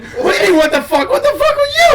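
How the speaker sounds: high-pitched mock outrage with laughter; incredulous retort. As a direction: fire back in comic disbelief. Retold quarrel with the girl.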